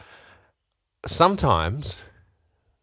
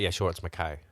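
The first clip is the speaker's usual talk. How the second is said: softer, giving in to the mistake; resigned agreement; 3 semitones lower, 6 dB quieter than usual. Retold or imitated. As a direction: concede it, fed up and softly. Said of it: "she's just like".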